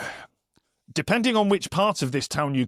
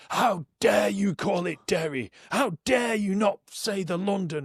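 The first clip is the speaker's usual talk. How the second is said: mock outrage; 6 semitones higher than usual. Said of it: "He was like".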